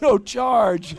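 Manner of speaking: can't believe what you just heard; stunned repeat with "No" stressed; incredulous. Retold or imitated. Reacts to driver's offer.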